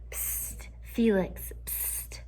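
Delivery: whispering. Acted. Kids whispering behind his back.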